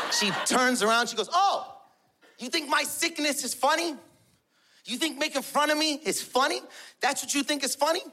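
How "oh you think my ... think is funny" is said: high-pitched, indignant wife confronting him; offended confrontation. Retold or imitated. Offended mother confronts father.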